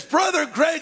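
high, loud call of the name; a big loud stranger calling to Greg; big loud greeting. Retold or imitated. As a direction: boom it out like a big friendly guy. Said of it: "he's, like, really big and loud".

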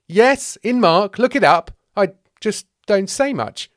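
loud, high, drawn-out insistence; forgotten disciple. Acted. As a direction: defend your existence slowly and emphatically.

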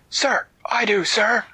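high, fast little soldier voice; high gingerbread man. Acted. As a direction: chirp it quickly like a tiny soldier.

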